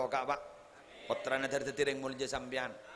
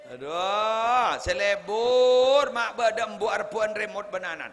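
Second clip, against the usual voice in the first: mock scolding mother; 7 semitones higher, 9 dB louder than usual. Mother scolding over TV remote.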